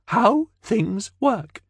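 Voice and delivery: high, slow alien creature; high, slow, matter-of-fact alien. Acted. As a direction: draw it out slowly like a patient alien. Alien speaks.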